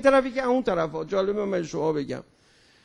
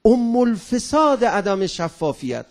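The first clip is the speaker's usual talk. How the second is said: mock shout; 5 dB louder, slower than usual. Shown as a demonstration.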